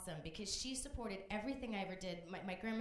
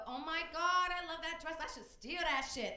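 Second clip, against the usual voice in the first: sassy black-voice take; 8 semitones higher than usual. Shown as a demonstration. Showing how she gets away with stealing a dress, sassy and higher. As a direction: say it sassy as a joke. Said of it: "Now, if you go".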